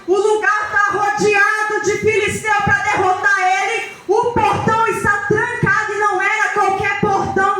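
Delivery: forceful, ringing sermon delivery with stretched key words; impassioned preaching. Acted. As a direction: preach it with full conviction to a congregation.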